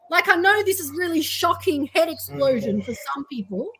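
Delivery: mock amazement at the obvious; sarcastic. Real, not acted. Activist mocking people shocked that disabled minorities exist, sarcastic. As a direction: deliver it with dry, pointed sarcasm. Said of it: "I'm being sarcastic".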